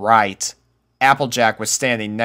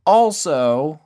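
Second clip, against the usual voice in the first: country cowgirl; 6 semitones higher than usual. A narrator's reading. Applejack voiced.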